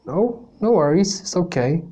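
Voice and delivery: easygoing teacher in a put-on Canadian accent; Mister B. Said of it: "bear with my accent here".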